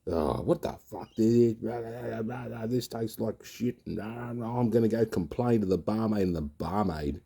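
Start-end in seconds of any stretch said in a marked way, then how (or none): 0.1-6.2 mock drunken rant.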